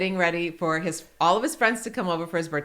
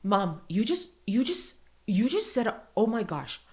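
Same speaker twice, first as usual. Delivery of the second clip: faltering restarts, barely able to say it; stunned child, halting; 3 dB quieter than usual. Retold or imitated. Son tells mom she said a bad word, stunned and halting. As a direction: imitate a shocked kid composing himself. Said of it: "can't even talk properly".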